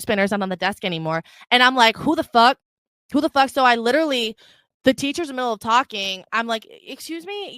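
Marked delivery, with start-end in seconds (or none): 2.0-3.5 raised, louder disbelief; indignant outburst. Retold or imitated. Acted angry reaction to theft. 6.7-7.6 tag-along interruption. Retold or imitated. Interrupting the teacher in class.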